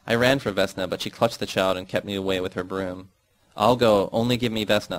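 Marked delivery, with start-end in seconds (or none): 3.5-5.0 a touch of pleading; begging. Acted. Daughter begging her mother for the child, mild pleading. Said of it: "I begged".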